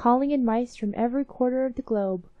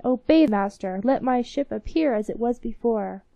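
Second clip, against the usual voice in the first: commanding; 4 dB louder than usual. Acted. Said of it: "commanded the young man".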